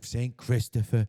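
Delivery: put-on drawn-out Jersey mobster accent; Sopranos Italian-American accent. Podcaster repeating a saint's name, in Sopranos mobster accent. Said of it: "like, from The Sopranos".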